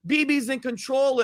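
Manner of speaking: parroting what critics claim, with a sneer; mocking quote of critics. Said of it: "a lot of people are like".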